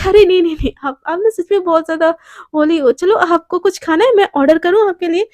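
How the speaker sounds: fluster and protest loudly. Acted. Flustered reply to boss.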